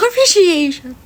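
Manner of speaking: a slow, laughing Appreciation; laughing repeat. Shown as a demonstration. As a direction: repeat Appreciation giggling at yourself.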